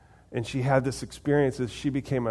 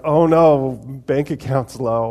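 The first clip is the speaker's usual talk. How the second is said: mock panic; 2 semitones higher, 9 dB louder than usual. Believers struggling with little bits, mock panic. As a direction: imitate someone fretting over a small setback, loudly. Mimics people fretting over small troubles.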